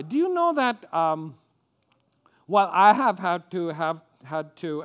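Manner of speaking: ordinary talk, nothing marked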